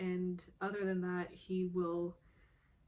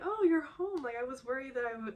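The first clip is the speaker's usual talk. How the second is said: imitating mom; 5 semitones higher, 3 dB louder, faster than usual. Retold mom arriving at door.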